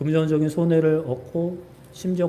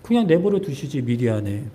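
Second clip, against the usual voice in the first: mild complaining. Acted. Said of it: "라고 따지는 거예요".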